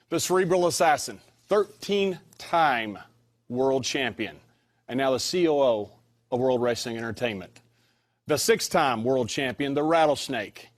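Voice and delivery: announcer intro; announcer introduction. Acted. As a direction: hype up each legend. Host introduces the guests.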